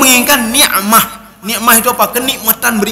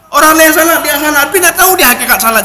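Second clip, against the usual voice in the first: raised preaching voice; 4 semitones higher than usual. Real, not acted. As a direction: lift the voice to stress the point. Preacher rebukes heedless worship.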